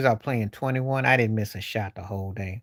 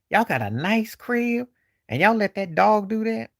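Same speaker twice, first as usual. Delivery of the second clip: incredulous; 10 semitones higher than usual. Retold or imitated. Guest silently questioning the dog's owners, incredulous. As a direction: question them in mock astonishment, pitch way up.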